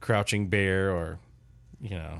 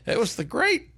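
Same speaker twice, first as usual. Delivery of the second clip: higher, laughing mock-epic title; laughing grand announcement; 3 dB louder than usual. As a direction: announce it like a legend while cracking up.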